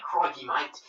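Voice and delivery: quick stock Australian accent demo. Shown as a demonstration. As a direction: put on an Aussie accent. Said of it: "I've only done the Australian accent".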